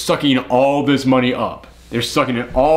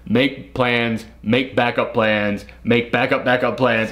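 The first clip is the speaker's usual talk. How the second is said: slow list; 3 semitones lower, slower than usual. Retold or imitated. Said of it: "he lists out".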